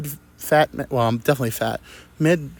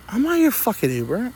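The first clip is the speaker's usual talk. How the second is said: mock angry driver; 10 semitones higher than usual. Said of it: "And she goes".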